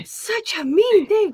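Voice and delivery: slow, high whimpering wail; fake-sob it out in outrage; mock crying. Gasp then mock crying outrage.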